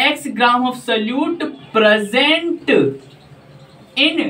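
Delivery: very slow, word by word; slow dictation. Shown as a demonstration. Teacher dictating the pronunciation to students, very slow. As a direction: drag each word out for note-taking. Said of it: "ये इसका pronunciation होगा".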